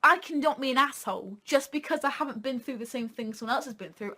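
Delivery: ordinary delivery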